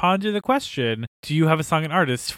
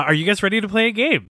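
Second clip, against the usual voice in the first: put-on bright kids' TV host voice; children's show host; 6 semitones higher, faster than usual. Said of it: "in true children's show fashion".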